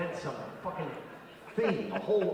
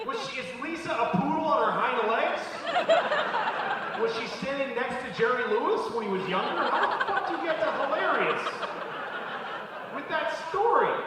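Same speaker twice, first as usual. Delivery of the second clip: high, loud incredulous ranting; outraged rant; 10 semitones higher, 4 dB louder than usual. Acted. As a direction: scream disbelief at a bore.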